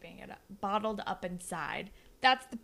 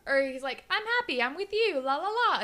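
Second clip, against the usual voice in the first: mock lovesick voice; 10 semitones higher, 4 dB louder than usual. Voicing a smitten character.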